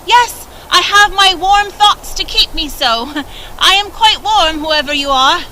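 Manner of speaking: put-on high, bright-hearted young girl; sweet girl's voice. A narrator's reading. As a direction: answer cheerfully in a high girl's voice. Kind girl answers Grandfather Frost.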